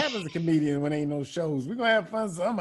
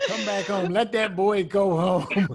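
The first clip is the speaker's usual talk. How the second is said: mock plea; slower than usual. Pleading him home, laughing.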